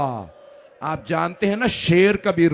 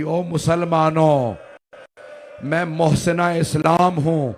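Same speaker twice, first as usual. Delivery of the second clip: loud, slow, proclaiming to a crowd; loud, slow plea to the believers; impassioned public plea; 3 dB louder, slower than usual. Acted. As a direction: call out to the whole nation, pleading. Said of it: "बीबी उम्मत से कह रही थी".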